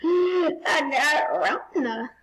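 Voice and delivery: slow, stunned gasp; gasping surprise. Real, not acted. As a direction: gasp then say it slowly.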